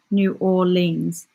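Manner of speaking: "New Orleans" repeated slowly as "noo aw-leenz"; careful, drawn-out try at "New Orleans"; practising pronunciation. Shown as a demonstration. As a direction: sound out "New Orleans" slowly, two syllables in "Orleans". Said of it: "Why is that word so hard".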